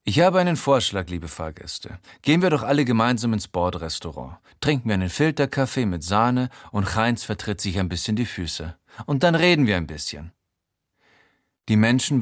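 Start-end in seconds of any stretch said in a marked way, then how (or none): 0.0-10.3 train announcer. Retold or imitated. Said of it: "guter Zugbegleiter für einen I C E".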